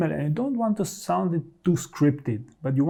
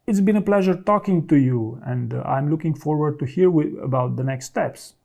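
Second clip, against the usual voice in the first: polite goodbye. Shown as a demonstration. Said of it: "You could be a little bit more polite here".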